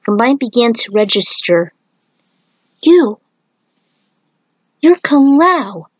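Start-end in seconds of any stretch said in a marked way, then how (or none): 2.8-5.9 higher and louder, slowing on the name; startled realization, drawn out; stunned recognition. A narrator's reading. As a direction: gasp out who he is as it dawns on her. She recognizes her rescuer.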